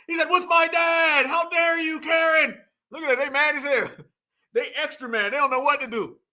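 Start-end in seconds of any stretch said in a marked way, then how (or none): 0.3-2.6 high-pitched, hammed-up outrage; mock indignation. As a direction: play the scandalized man, pitched up. Mocking upset man confronting Karen.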